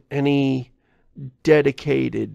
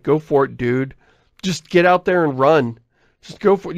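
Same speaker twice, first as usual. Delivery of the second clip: mildly raised, pushing voice; urging on; 4 dB louder than usual. Acted. Viewer to a cautious player on screen, urging on. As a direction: egg the player on impatiently.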